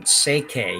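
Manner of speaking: "Seke" said with no L sound; silent L pronunciation. Shown as a demonstration. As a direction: say "Seke", leaving the L out entirely. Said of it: "You don't pronounce the L at all".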